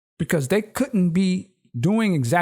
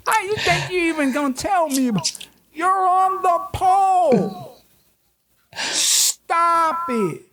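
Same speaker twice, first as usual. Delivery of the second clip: mock club customer; 11 semitones higher than usual. Voicing the strip club customer.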